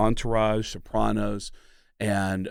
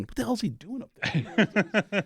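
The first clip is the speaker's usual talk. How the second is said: mock roadie; 8 semitones higher, 4 dB quieter, slower than usual. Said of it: "roadies ... going".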